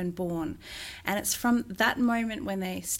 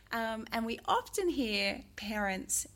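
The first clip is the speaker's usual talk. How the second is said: ordinary delivery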